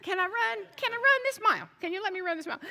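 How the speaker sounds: begging to be left alone on the treadmill; a light mock plea for peace; exasperated plea. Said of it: "Oh, he's like".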